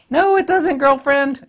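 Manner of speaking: very high, loud sassy retort. Acted. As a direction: sass them like a diva. Sassy rebuttal to mocked claim.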